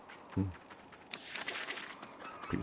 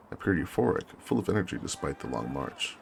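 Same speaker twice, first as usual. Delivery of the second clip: measured war-diary reading; story narration; 3 semitones lower than usual. Acted. Officer recounts arriving at the trenches, measured narration. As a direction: read it as a deliberate journal entry.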